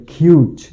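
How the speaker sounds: "কিউচ" said alone as kyooch; second syllable shown. Shown as a demonstration. Teacher showing learners the second syllable, demonstrated pronunciation. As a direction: sound out "কিউচ" as one syllable with a k onset. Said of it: "দ্বিতীয় সিলেবলটির উচ্চারণ হবে".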